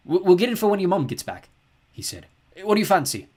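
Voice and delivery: loud, bright cheery dad. A narrator's reading. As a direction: pitch it as a fun idea.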